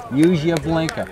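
put-on Boston accent, blinker said as blinkah. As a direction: read it like the Boston sign. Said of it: "the R is spelled Y A H".

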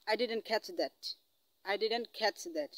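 very slow, word by word English; very slow teaching demo. Shown as a demonstration. Teacher modelling a polite request for students, very slowly. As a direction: stretch every word for the class. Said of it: "তখন আপনি বলবেন".

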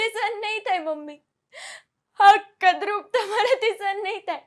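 tearful outburst. Acted. Daughter breaking down in tears before her mother. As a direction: break down while listing the losses. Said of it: "ઓડિયન્સે ડુસકા ભરેલા".

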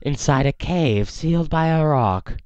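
slow, creepy robotic seer; Madame Fawn voice. Acted. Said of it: "excited about my Madame Fawn voice".

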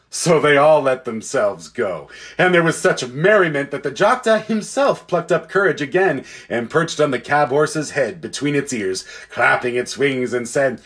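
expressive, measured read-aloud; story narration. A narrator's reading. Reader telling listeners of Narnia waking, expressive story narration. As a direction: tell it clearly with lively emphasis.

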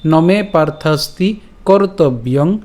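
slow, measured shloka phrase; verse recitation. Shown as a demonstration. Teacher repeating from the start, slow recitation. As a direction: recite deliberately, each word apart. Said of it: "আবার প্রথম থেকে বলি".

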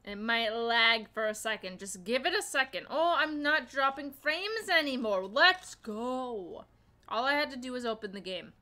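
talking while crunching chips; words through a mouthful of chips. Real, not acted. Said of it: "Sorry if I'm crunching too loud".

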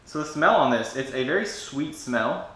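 talking while sniffing package; muffled by held package; speaking with package at face. Real, not acted. Seen 0: Opened package held under nose and mouth while sniffing, lowered 4.6–6.4.

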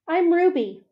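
put-on high, eager child; little girl voice. A narrator's reading. Ruby introduces herself to Ivan, high and eager. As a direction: chirp it like a small calf.

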